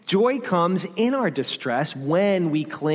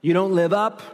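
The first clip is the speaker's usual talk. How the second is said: rattled-off list of put-downs; mildly acted nagging inner voice; accusing refrain; 3 semitones higher than usual. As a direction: pile up the charges insistently. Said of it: "When you hear that refrain".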